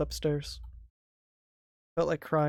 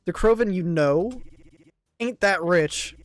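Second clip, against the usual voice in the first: cold menace; 5 semitones higher, 11 dB louder than usual. Acted. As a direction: lean in, menacing.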